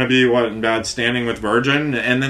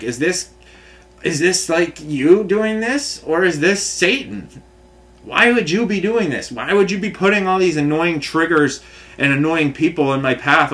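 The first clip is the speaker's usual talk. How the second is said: higher, pleading challenge to God; retold appeal, pitched up in frustration; exasperated questioning of God; 5 semitones higher than usual.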